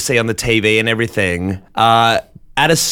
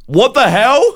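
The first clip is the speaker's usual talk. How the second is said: high-pitched indignant outburst; imitated yell; 11 semitones higher, 4 dB louder than usual. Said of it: "yells out".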